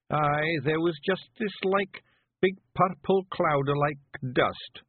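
high, rough little Scottish pictie, gently; a tiny Scots warrior breaking bad news; Feegle voice. Daft Woolly speaks.

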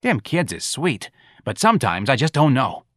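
calm after shouting. Acted. Santa continuing to Irene after yelling, calm. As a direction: ease back into mild, weary confiding. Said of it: "Santa continued calmly".

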